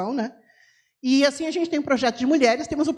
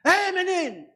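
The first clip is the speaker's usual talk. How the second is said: high calling shout; 5 semitones higher than usual. Shown as a demonstration. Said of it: "eu falo um pouco alto".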